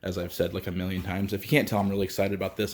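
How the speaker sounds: a little winded after riding; out of breath. Real, not acted. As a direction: talk while catching your breath. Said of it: "I'm out of breath".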